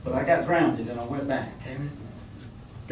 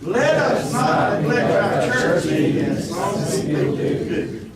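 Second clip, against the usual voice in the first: slow, loud line for all to follow; second take louder; slow call-and-response reading, louder; 3 semitones higher, 6 dB louder, slower than usual. Shown as a demonstration. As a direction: lead it again firmly. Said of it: "let's do it again".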